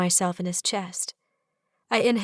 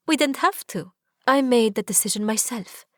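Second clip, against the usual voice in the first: triumphant; 3 semitones higher than usual. Acted. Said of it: "I say triumphantly".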